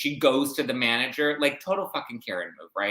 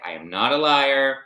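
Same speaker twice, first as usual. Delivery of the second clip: retold indignation; 3 semitones higher, 7 dB louder than usual. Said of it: "that's her trigger".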